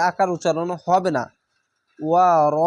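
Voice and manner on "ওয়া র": full-mouthed r in "ওয়া র"; heavy ra. Shown as a demonstration. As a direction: say a thick, rounded "র", not raa. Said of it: "এখানে রা কখনোই বলবেন না, মোটা অক্ষরে".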